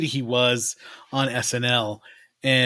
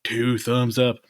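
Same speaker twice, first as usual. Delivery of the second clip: lightly voiced politician impression; a hint of the ex-president, breaking into laughs; Bill Clinton; 2 semitones higher than usual. Podcaster playing the former president reviewing a movie, light Clinton impression. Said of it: "My Bill Clinton sound".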